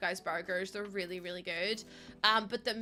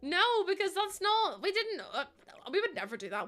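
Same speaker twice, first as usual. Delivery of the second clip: mock denial; 9 semitones higher than usual. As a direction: drag it out like a guilty kid. Pretend denial.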